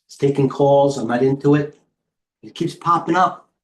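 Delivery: winded, out of breath talking. Real, not acted. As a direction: push the words out short of breath. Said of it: "I'm out of breath".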